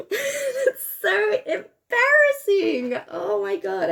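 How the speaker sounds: high, slow half-laughing mock whine; copying a cartoon character. Copying a cartoon she's watching, high laughing whine. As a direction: ham up an embarrassed cartoon voice, squealing and giggling. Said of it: "and I'll be like".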